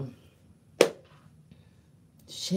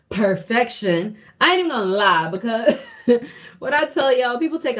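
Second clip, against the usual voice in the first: emphatic; 8 semitones higher, 7 dB louder than usual. Real, not acted. Emphatic laughing remark.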